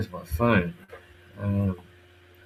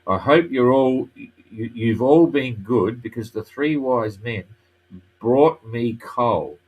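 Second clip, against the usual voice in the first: put-on slow English with a French accent; foreign accent in french; 4 dB louder, slower than usual. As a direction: play a French sailor speaking English. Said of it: "this is what she says in English".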